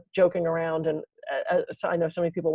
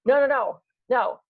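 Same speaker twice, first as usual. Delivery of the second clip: rapid high no, no, no, louder and climbing; frantic denial; 8 semitones higher, 3 dB louder than usual. Retold or imitated. Patient to stern nurse, frantically taking back joke, loud and high. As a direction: backpedal fast, half laughing, half panicked. Frantically denying smoking crack.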